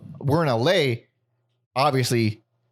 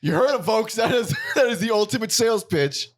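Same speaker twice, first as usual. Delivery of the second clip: announcer voice; 7 semitones higher than usual. Pretend. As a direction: hype it like a TV host. Mock announcer pitch.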